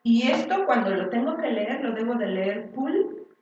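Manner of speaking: "pool" said the English way, /pul/ with a light p; pool pronunciation. Shown as a demonstration. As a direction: read "pool" as an English word. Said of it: "y dices".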